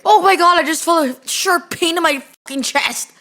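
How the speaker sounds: exaggerated mock-alarmed outcry; mock panic. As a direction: play at panicking over a chest pain. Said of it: "I need to start, like".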